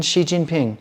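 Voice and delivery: "Xi Jinping" with "sh" for Xi and hard J; crisp "shee jin-ping"; correct pronunciation. Shown as a demonstration. Giving the name as it should be said, correct "shee jin-ping". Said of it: "There you go".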